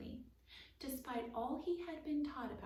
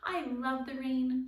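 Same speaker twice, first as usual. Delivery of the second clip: louder, slow, delighted; announcing; 4 semitones higher, 9 dB louder than usual. A narrator's reading. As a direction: proclaim it gleefully. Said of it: "Jessie announced".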